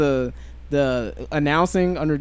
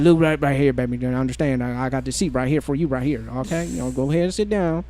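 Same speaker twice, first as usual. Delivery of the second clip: cat daddy voice. Acted. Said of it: "that's your cat daddy voice".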